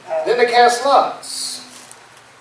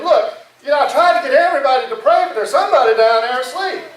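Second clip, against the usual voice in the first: higher, hurried complaint; acted alarm, pitched up and pressing; urgent report; 5 semitones higher, faster than usual. Sailor running up to tell the captain, urgent report.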